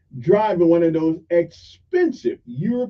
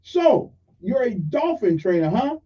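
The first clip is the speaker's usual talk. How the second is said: lightly voiced irate driver taunting; mock irate yell; 5 semitones higher than usual. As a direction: taunt him like an angry bully. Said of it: "the irate man yelled".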